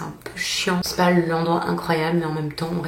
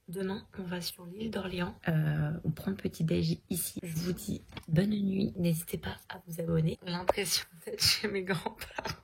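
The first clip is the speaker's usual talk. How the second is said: soft, hushed goodnight talk; quiet late-night voice; 5 dB quieter than usual. Real, not acted. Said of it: "late night, saying good night". (voix basse de fin de soirée)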